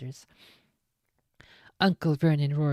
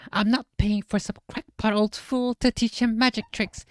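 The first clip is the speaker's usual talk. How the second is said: mock yell; 7 semitones higher than usual. A narrator's reading. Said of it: "yelled Uncle Vernon".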